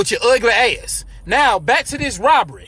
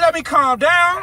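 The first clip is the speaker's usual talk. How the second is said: calming down; 4 semitones higher, slower than usual. Acted. Robber calming himself.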